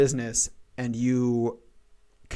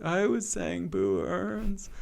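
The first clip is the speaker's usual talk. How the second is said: Hans Moleman; 6 semitones higher, 6 dB quieter, much slower than usual. Retold or imitated. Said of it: "Hans Moleman's like".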